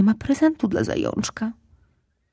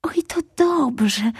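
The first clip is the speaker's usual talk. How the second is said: relieved; 8 semitones higher, much slower than usual. Acted. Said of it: "z ulgą powiedział Fumuś".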